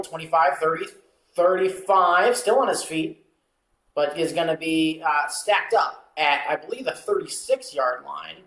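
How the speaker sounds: sportscaster calling the kickoff return; live play-by-play. Acted. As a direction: call the return yard by yard, building then settling.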